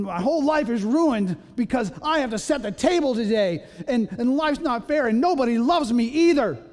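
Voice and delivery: hammed-up pity-me moan; pathetic whining.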